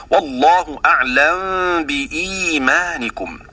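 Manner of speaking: slow recitation with the meem of أعلم hidden, lips closing into the ب of بإيمانكم; تلاوة بإخفاء الميم; Quran recitation demo. Shown as a demonstration. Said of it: "هكذا".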